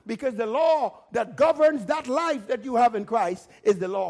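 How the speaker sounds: animated, driving sermon delivery; preaching. Real, not acted. Preacher teaching the congregation about righteousness, animated preaching. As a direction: preach it with steady conviction.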